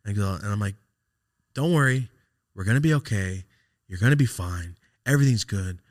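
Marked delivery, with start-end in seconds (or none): 1.5-5.8 firm, louder comforting phrases; retold pep talk in short bursts; insistent reassurance. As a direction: keep his spirits up, phrase by phrase. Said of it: "I'm just trying to, like, keep him".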